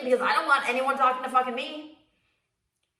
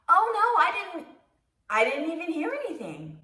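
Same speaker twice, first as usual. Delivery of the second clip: sweetly reassuring; 7 semitones higher than usual. Retold or imitated. Gym stranger sweetly reassures the embarrassed farter, kind. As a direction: let him down kindly, all sugar. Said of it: "very sweetly was like".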